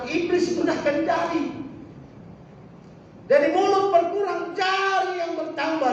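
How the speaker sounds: high-pitched, emphatic preacher's delivery; fervent preaching. Acted. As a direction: press the warning on the congregation. Preaches with force. (khotbah berapi-api)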